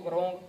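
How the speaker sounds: रॉन्ग as some misread it, W pronounced; wrongly sounded W. Shown as a demonstration. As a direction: sound a consonant before the r of रॉन्ग. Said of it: "कोई बोलता है इसको रॉन्ग".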